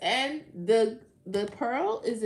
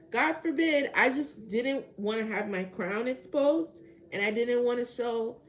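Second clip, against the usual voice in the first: loud, slow, raised-pitch sarcasm; sarcastic indignation; 3 semitones higher, 7 dB louder than usual. Real, not acted. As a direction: drag out the indignant protest loudly. Sarcastic protest continues.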